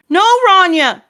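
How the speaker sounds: high, loud protest; pleading cry. Acted. Adult to guilty child Rania, pleading cry. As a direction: call out to stop the child's guilt. Consoling crying child, acted.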